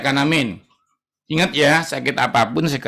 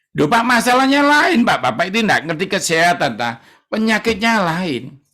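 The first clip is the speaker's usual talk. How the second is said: complaining patient; 5 semitones higher than usual. Retold or imitated. Patient arguing with preacher.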